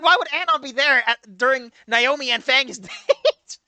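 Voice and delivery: can't keep it together while quoting; slow, giggling disbelief; laughing through a quote. Retold or imitated. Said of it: "I was like".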